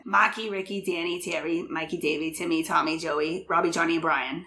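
lightly done Boston accent, dropped R in Marky. Shown as a demonstration. Redoing Will's list of brothers, in a Boston accent. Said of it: "do the names in the Boston accent".

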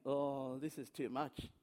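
low, very soft aside; overwhelmed private thought. Retold or imitated. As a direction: think it aloud, hushed and low.

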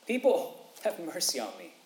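high cry of People, then the rest dropped back; mock plea to crowd. Beggar pleading to the crowd, high call on People. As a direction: call out to the crowd, half-hearted. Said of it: "Why not beg the people".

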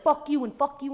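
loud, high furious curse; angry outburst. Retold or imitated. To friends, reliving lashing out: furious yell. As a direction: blow up at it, venting years of rage.

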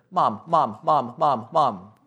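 light whiny calls of mom, mom; a hint of a kid at the bathroom door; nagging child. Lightly voiced kid pestering mom at the bathroom.

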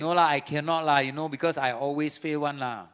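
lightly voiced Singlish excuse; Singaporean accent. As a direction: whine it in a Singlish lilt.

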